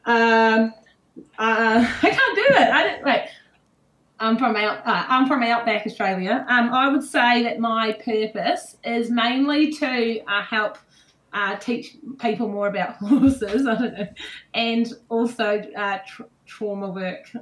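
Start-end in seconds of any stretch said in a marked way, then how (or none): 4.2-13.7 hesitant, put-on Australian accent. Shown as a demonstration. Guest answers on life purpose, halting Australian accent. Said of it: "So this one's Australian". 14.5-17.3 slow, stumbling Australian attempt; Australian accent. Shown as a demonstration. Guest still answering on purpose, faltering Australian accent. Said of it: "I can't do Australian accent".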